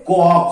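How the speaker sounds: ক খ as ko, then kho; two separate sounds. Shown as a demonstration. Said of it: "তখন উচ্চারিত হবে".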